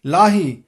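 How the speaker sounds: ਲਾਹੀ as "laa-hee", the h heard; sounded h. Shown as a demonstration. Teacher modelling ਲਾਹੀ with the h sounded. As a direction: breathe an h before the last vowel of ਲਾਹੀ. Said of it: "ਹਾਹੇ ਦਾ ਉਚਾਰਨ ਹੋਵੇ".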